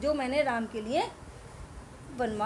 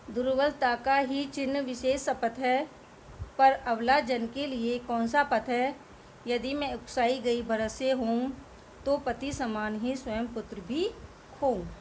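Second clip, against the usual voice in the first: poem recitation. Acted. Teacher reciting Kaikeyi's lament to students, measured verse.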